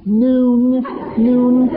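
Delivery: high, eager urging of the time; pleading children begging for an earlier hour; eager kids calling. Retold or imitated. Kids urging dad to invite guests early.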